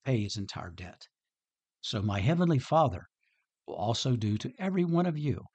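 measured, unhurried Bible reading to the congregation; scripture reading. Acted. Pastor reading the parable to his listeners, measured and solemn.

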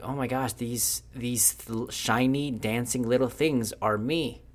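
lightly acted wonder; awed realisation. Lewis realises the shiny dancing things are him, awed. Story figure marvels at fireflies.

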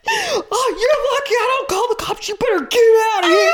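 put-on mom threatening the boy; hammed-up furious mom. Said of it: "is like".

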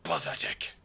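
very slow, contemptuous villain voice; Mordekaiser. Acted. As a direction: stretch each word like a dark overlord. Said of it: "he goes".

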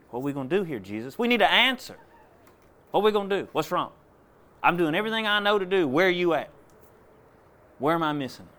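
crying out high and loud to God, pleading; a cornered father begging Jesus for an answer; desperate prayer. Retold or imitated. Father pleading with Jesus over his daughter, loud desperate cry.

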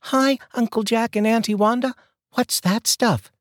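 put-on high child's voice, slowing at the question; boy greeting neighbours and asking about the bottle; curious child. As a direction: greet them then ask, wide-eyed.

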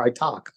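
low "talk" with an open "ah"; no New York "aw" in "talk"; corrected "talk". Shown as a demonstration. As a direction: say "talk" as "tahk". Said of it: "I don't talk like this anymore".

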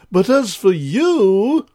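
slow, cold royal voice; Ice King voice. Acted. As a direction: turn icily on the culprit. King turns on Bob.

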